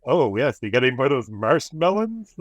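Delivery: lightly mocking quote, leaning on marsh-melons. Friends teasing Spock about his word, lightly mocking. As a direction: gently make fun of his wrong word. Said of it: "in a weird way, like, that they're making fun of him".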